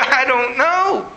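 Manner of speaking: mildly hammed-up tearful answer; mock bawling. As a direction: imitate bawling through the words, slowly. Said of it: "I started bawling in the restaurant".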